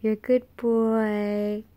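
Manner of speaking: drawn-out, slow dog-praise voice; sing-song dog praise. Real, not acted. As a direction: coo to the pup.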